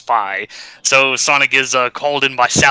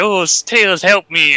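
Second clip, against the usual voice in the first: higher-pitched pretend distress; mock plea for help; 6 semitones higher than usual. Sally begging Tails for help, in mock distress. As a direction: play a damsel calling out, lightly hammed.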